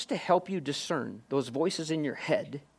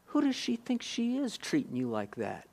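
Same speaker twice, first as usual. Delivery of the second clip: whisper; 6 semitones higher, 6 dB quieter than usual. Retold or imitated. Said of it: "And he'll whisper".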